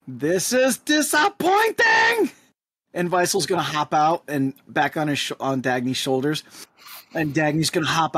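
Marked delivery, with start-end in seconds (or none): 0.1-2.3 high, slow chirpy complaint; chirp. Acted. Dagny chirping his disappointment at Ramon, high and slow. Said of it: "just chirp".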